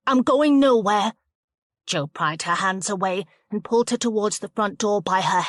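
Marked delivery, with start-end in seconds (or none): 0.1-1.1 defiant refusal. Acted.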